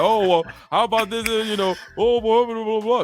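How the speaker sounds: high, flustered, scattered, deflecting babble. Mocking how he deflects in an argument: imitating a baby mama terrorist. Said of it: "He sounds like a baby mama terrorist right now".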